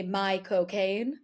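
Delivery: slow, drawn-out Michael Caine voice; Michael Caine impression. Friend shows how to say Michael Caine like Caine himself, slow drawl. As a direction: stretch out my cocaine like Caine. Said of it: "if you wanna say Michael Caine like Michael Caine".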